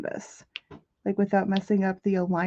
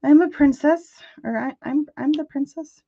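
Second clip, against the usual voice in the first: loud, higher mock princess voice; prissy princess; 6 semitones higher, 7 dB louder than usual. Tia answering the delivery guy, loud mock princess voice. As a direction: announce yourself like royalty. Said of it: "flip your hair and be like".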